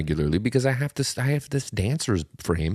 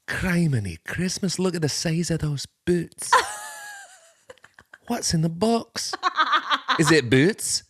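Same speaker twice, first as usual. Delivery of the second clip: higher, laughing through a joke line; laughing mock horror; 8 semitones higher than usual. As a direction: giggle while hamming it up. Laughing mock movie lines.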